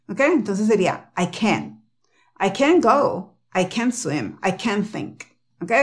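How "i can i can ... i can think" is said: CAN said as a full "ken", accented; stress on CAN. Shown as a demonstration. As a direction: hit CAN rather than I. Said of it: "El acento va en can y se pronuncia K E N".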